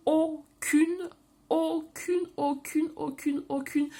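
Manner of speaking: aucune hammered high, again and again; emphatic repetition. Real, not acted. Vlogger insisting to viewers her plants lost nothing, emphatic repetition.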